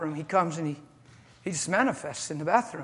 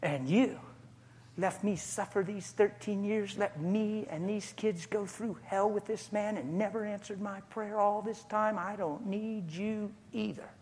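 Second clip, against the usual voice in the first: defiant wife to God; 2 semitones higher, 6 dB quieter than usual. Retold or imitated. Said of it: "She pumped her fist".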